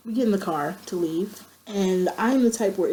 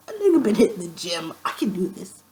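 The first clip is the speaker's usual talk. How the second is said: whispered cocky pep talk; whispered self-hype. Retold or imitated. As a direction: hype yourself up under your breath. Self-hyping before running.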